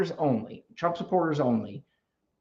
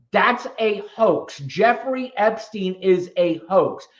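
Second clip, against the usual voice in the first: mocking quote; 3 semitones higher, slower than usual. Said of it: "any man on this planet will come out and say".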